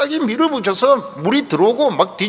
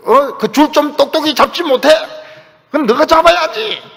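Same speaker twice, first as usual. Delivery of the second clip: mock bickering, pitched up; lightly acted squabble, raised pitch; acted scolding; 5 semitones higher, 3 dB louder than usual. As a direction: snap back and forth like quarrelling crewmates. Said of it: "서로 야단을 치고 따지고".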